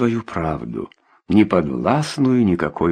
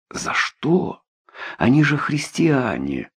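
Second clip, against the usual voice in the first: dismayed; 5 semitones higher than usual. A narrator's reading. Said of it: "обескураженно проговорил я".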